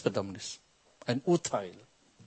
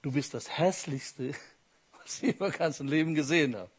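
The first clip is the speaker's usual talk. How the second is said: laughing; 4 dB quieter than usual. Real, not acted. Repeats punchline, laughing.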